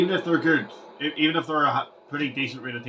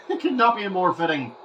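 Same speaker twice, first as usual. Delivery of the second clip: said through a laugh; giggling at the scoreboard; 3 semitones higher than usual. Real, not acted. Repeats line, laughing.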